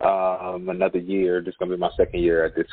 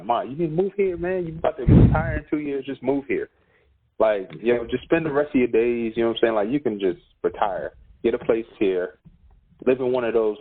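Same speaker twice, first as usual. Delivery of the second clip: raised, eager sales pitch; pleading excitedly. Retold or imitated. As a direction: coax mom to move here. Pitching mom to move here.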